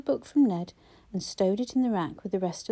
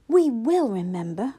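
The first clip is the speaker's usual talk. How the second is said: louder, fierce promise; fierce cry; 2 semitones higher, 6 dB louder than usual. A narrator's reading. Boy fiercely promising the old man, loud cry. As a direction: insist it hard, like a child who means it. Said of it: "cried Ned fiercely".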